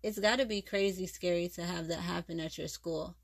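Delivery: steady read-aloud narration; audiobook-style reading; story narration. Acted. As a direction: read the chapter to your audience. Reads a novel chapter aloud.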